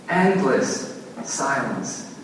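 usual speaking voice

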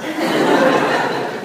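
high, airy laugh; burst of laughter. Real, not acted. Pastor laughs telling the congregation, amused. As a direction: laugh at the memory.

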